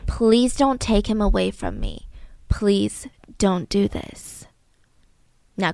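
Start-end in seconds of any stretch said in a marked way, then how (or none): 0.1-4.5 softly pleading, slow and broken; mock sobbing plea. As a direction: beg quietly through half-faked tears. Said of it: "And she starts sobbing".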